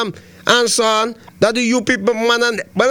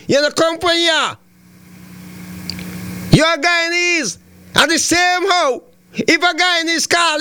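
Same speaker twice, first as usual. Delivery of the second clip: scolding shout; 3 semitones higher than usual. Real, not acted. Host berating caller Adrian on air.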